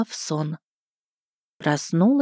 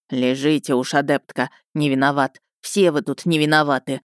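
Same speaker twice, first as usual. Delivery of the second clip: lower, irritated stern rector; 5 semitones lower than usual. Acted. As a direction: grumble down at the student. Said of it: "раздражённо ответил ректор". (раздражённо, ниже)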